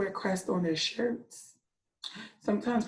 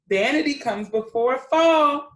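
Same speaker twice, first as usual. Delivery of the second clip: a touch of stern scolding, a bit louder; lightly scolding; 5 semitones higher, 7 dB louder than usual. Acted. Older cockatoos scold the vain one, mild scolding. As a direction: chide the vain bird mildly. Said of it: "they scolded".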